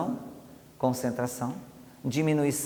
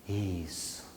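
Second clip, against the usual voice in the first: very soft, lower, slow and heavy; kinesthetic hypnotic voice; 5 semitones lower, 7 dB quieter, slower than usual. Shown as a demonstration. Hypnotist guiding a subject deeper, very soft and slow. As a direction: melt the words down into stillness. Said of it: "Uma entonação mais sinestésica".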